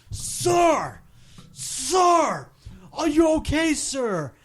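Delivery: a stranger's hammed-up high alarmed call; frantic lady. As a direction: imitate a panicked stranger calling out. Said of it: "screaming at the top of her lungs".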